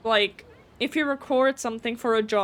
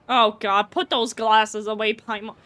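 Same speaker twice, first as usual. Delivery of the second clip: loud outburst; 6 dB louder than usual. Real, not acted. Reacting loudly to Paimon's glasses.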